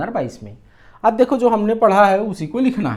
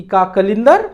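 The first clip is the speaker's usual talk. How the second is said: put-on puzzled old man; 6 dB louder than usual. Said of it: "तो बूढ़ा बोलता है क्या".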